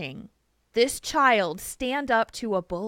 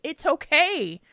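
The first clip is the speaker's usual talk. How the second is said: higher-pitched, soothing comfort; retold reassurance; 5 semitones higher, 5 dB louder than usual. Mother comforting the crying kiddo who hugged her, retold reassurance. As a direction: gently insist that all is forgiven.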